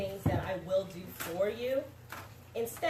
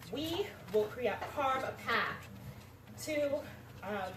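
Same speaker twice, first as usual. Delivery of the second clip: stage fright; 3 semitones higher than usual. Real, not acted. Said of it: "I'm sorry, I'm a little nervous".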